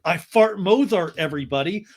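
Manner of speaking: mock proud announcement; Sandoval. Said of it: "And Sandoval's like".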